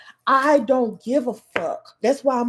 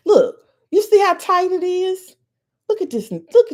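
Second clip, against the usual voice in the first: excited exclaiming; 8 semitones higher, 6 dB louder than usual. Real, not acted. Pointing at hair on screen.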